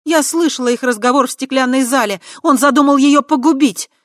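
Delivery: high, loud indignant protest. A narrator's reading. Tai indignantly objecting to handing Kava over. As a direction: protest they betray her. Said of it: "возмутилась Чара".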